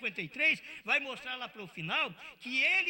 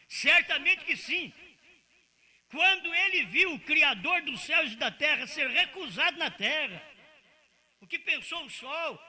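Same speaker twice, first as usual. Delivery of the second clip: louder, emphatic pulpit delivery; preaching; 5 dB louder than usual. Acted. Preacher stirring the congregation, emphatic. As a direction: preach it with conviction.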